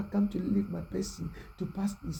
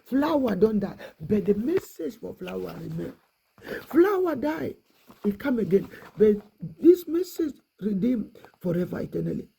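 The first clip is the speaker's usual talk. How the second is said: louder, rising exclamations; impassioned preaching; 4 dB louder than usual. Real, not acted. Preacher proclaiming the eternal message, louder. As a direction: proclaim it with fervour.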